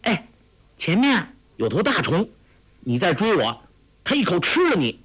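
put-on high, playful girlish warning; laughing tease. A narrator's reading. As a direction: tease a pursuer with a mock threat. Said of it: "黄蓉驻足笑道".

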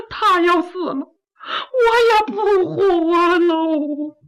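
slow, drawn-out sob on the last words; crying. Acted. Sister weeps to her brother that she won't live without him, crying. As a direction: wail that you'll die too. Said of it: "妹妹，先别哭".

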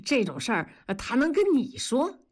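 amused, self-satisfied denial; smugly pleased. Acted. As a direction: deny it with a pleased grin. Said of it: "笑得美不滋儿地说". (美滋滋地笑着说)

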